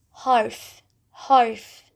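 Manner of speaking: harf with a light tapped r; soft Turkish harf. Shown as a demonstration. Teacher models the Turkish r in harf. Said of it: "we don't use that r sound like that".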